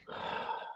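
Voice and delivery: a quiet, breathy sigh before answering; soft sigh. Shown as a demonstration. Lecturer sighing to show he is not fine. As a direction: let out a weary sigh. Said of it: "You understand that I'm not fine".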